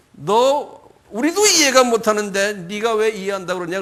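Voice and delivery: mildly acted indignation; scolding. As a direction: raise pitch and volume to rebuke him. Questioners scold before expelling him.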